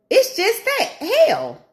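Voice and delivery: slow, high, laughing through it; high slow laughing groan; laughing exasperation. Real, not acted. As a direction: laugh at the misery. Venting, laughing.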